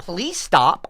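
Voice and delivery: calm plea. Real, not acted. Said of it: "I'm asking you nicely".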